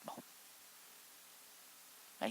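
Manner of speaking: usual speaking voice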